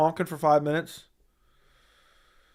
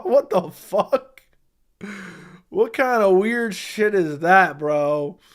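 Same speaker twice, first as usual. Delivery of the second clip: shocked outburst; 3 dB louder, much slower than usual. Real, not acted. Reacting to FaceTime donation request.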